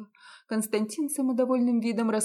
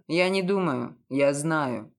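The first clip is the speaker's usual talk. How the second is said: lowered male voice, sure; confident; 5 semitones lower, slower than usual. A narrator's reading. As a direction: state it flatly with certainty. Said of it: "уверенно ответил Константин".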